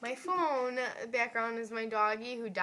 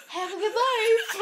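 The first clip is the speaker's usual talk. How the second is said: high, loud call through laughter; laughing, exaggerated send-off; mock farewell shout; 11 semitones higher, 10 dB louder than usual. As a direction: holler a cheery goodbye while cracking up. Calls to woman through closing doors.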